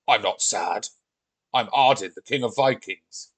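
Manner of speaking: lightly voiced proud Viking; a hint of a forceful Viking king. Lost Viking answering Mummy, forceful.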